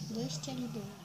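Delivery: talking through stuffed cheeks; words mushed by marshmallows; mouth full. Real, not acted.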